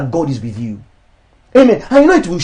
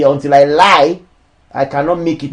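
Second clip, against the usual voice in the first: doubting believer; 4 semitones lower than usual. Retold or imitated. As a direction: mutter it like someone giving up.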